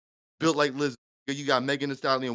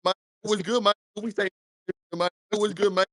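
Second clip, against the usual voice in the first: cosplayed Black American accent, slightly raised pitch; put-on Black American accent; 3 semitones higher than usual. Caller trolling the host with "we kings", put-on Black American accent. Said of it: "trying to have, um, foundational Black American accents".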